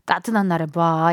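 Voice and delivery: lightly imitated Chungcheong accent, slowed; easygoing Chungcheong accent, unhurried; Chungcheong drawl. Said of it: "약간 요런 충청도 느낌 아닐까요?".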